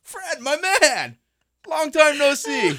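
high, slow hearty hello; buddy greeting. Pretend. Cohost playing a pal greeting Fred, high and slow. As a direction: greet an old pal, drawn out.

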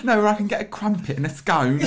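very high caricature British; mock-quaint British accent, hammed right up; exaggerated British accent. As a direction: parody a British tourist. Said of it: "a slightly accentuated Br-, British accent".

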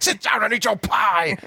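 high stern order; stern butler. Retold or imitated. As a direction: bark the order like a grumpy butler. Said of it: "he's like".

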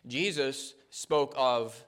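fervent sermon delivery, rising and falling; preaching. Acted. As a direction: preach it out to the congregation.

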